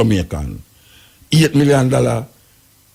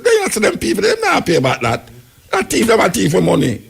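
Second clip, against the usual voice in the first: imitating a vox pop voice; 9 semitones higher than usual. Voicing man on the street.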